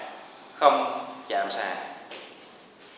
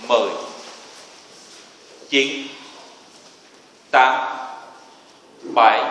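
barking gym coach; 4 dB louder, much slower than usual. Real, not acted. Instructor counting down a hold.

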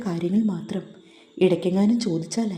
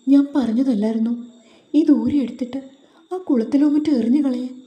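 higher and louder, a reproachful telling-off; exasperated scolding; 4 semitones higher, 4 dB louder than usual. Acted. Dharan reproaching Karthu over the thali, louder and exasperated. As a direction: scold her for still wearing it.

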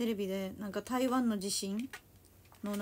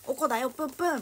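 mock-angry cutesy pout, a bit louder; cute pouty anger; 3 semitones higher, 5 dB louder than usual. Shown as a demonstration. Explaining a dialect word to viewers, cutesy mock anger. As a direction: playfully huff like a sulking cartoon girl. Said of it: "プンプンみたいな意味です".

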